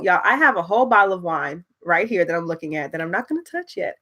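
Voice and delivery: ordinary delivery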